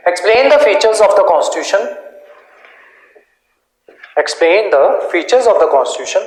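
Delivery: measured exam-question dictation; teacher dictating in separated phrases. Real, not acted. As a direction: read it out for students to write down.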